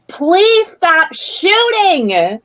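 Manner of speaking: high, very drawn-out call; pleading mock shout. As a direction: stretch it out as a call across the battlefield. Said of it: "I would like to shout at Terrence".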